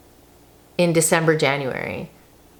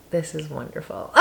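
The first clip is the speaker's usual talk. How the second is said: laughing; 5 semitones higher than usual. Retold or imitated. Laughing at watching the guys.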